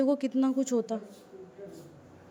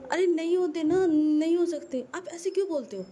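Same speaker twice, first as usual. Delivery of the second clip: raised, higher insistent denial; heated protest; 6 semitones higher than usual. Acted. Husband protests in heated argument.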